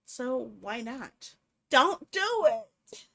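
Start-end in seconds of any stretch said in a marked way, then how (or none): 1.7-3.1 loud, slow shout at the screen; drawn-out shouted warning. Real, not acted. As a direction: yell don't do it at the character. Yells at own character.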